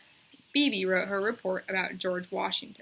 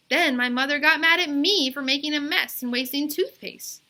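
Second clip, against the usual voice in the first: put-on girl's insistent voice; 6 semitones higher, 5 dB louder than usual. A narrator's reading. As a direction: draw out the yes like a stubborn kid. Bebe explains to teacher.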